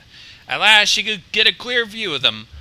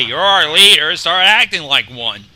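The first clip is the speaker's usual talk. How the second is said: stern; 7 dB louder than usual. Acted. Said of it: "a stern look".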